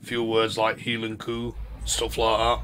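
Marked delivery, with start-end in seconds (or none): 0.8-1.5 "heel and coo" as Scots say Highland cow; Scottish pronunciation. Shown as a demonstration. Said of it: "I've got a Scottish buddy".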